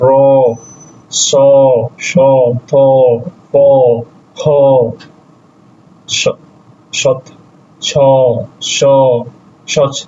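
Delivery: র, স, থ, প, খ each said alone with a pause after; letter drill. Shown as a demonstration. Teacher reciting Russian consonant sounds for learners, letter-by-letter drill. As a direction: sound out র, স, থ, প, খ one by one. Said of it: "র এর মধ্যে র".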